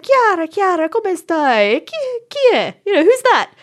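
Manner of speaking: high-pitched, eager Italian auntie calling out; mock-excited, high-pitched prying; excited nosy zia. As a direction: imitate a zia pouncing with questions. Zias greeting her, prying about boyfriend.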